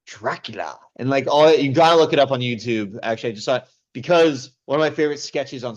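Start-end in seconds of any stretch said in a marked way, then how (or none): 0.0-0.8 slow, lightly voiced horror host; a hint of creepy old host; Vincent Price impression. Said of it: "he ended up doing".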